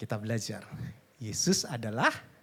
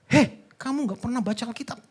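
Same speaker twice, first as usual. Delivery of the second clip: higher-pitched mock scolding; mock anger; 6 semitones higher, 4 dB louder than usual. God imagined scolding over unread Bible, mock angry. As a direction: call out an accusing reproach. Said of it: "Dia marah".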